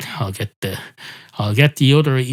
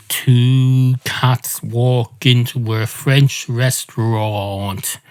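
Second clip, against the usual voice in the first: joke set-up; much slower than usual. Acted. Joke opener, slow set-up.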